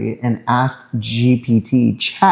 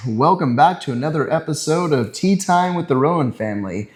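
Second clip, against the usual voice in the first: upbeat game show host voice; bright host intro; 4 semitones higher than usual. Real, not acted. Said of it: "Why do you sound like a game show host?".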